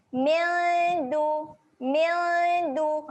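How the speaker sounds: "Min du" with a humming nasal n; nasalise, tongue up for the d. Shown as a demonstration. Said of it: "waktu dengung kita kena naikkan lidah". ("Min du" dengung)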